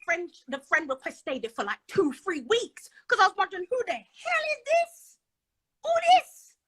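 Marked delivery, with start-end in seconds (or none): 3.7-6.6 mock Caribbean woman demanding who this is. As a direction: put on a Caribbean accent. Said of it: "this is my Caribbean voice".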